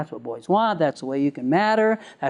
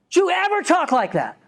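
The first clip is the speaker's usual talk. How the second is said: shocked scolding mom; 11 semitones higher than usual. Retold or imitated. Mom slaps boy, scolds.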